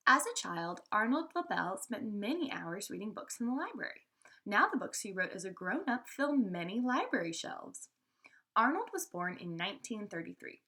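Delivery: clear, lively read-aloud voice; reading to children. A narrator's reading. Teacher reading a biography to her class, lively read-aloud.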